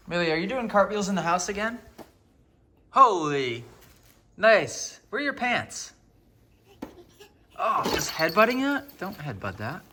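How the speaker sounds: high-pitched talk to a little one; playful parent voice. Real, not acted. Parent asking Millie about cartwheels, high playful voice.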